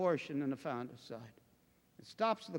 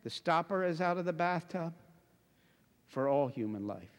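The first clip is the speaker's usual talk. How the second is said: gently grave; 2 semitones lower than usual. Real, not acted. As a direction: say it gently, letting the last phrase sink. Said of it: "I just say gently".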